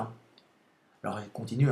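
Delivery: usual speaking voice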